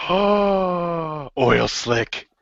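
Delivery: gasp, then a high burst of an idea; excited brainstorm; sudden idea. Real, not acted. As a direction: blurt out the inspiration.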